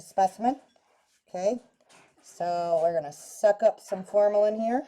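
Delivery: muffled behind a respirator mask; through a respirator. Real, not acted. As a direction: talk through a face respirator. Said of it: "it's so weird when you breathe in this respirator".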